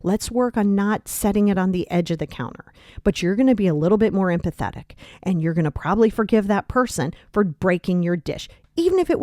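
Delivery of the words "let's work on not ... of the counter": gentle reassurance. Retold or imitated. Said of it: "are you gonna go".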